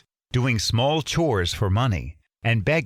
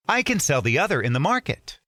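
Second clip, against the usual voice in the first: quick eager thought; Aladdin thinking; 5 semitones higher, faster than usual. Acted. Aladdin planning to himself, fast eager. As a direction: rattle it off, scheming.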